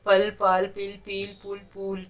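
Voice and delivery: पल पाल पिल पील पुल पूल, each short then long; पल पाल vowel contrast; vowel length contrast. Shown as a demonstration. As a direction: stretch every second word's vowel. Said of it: "निकालने के तरीके बदलते रहे".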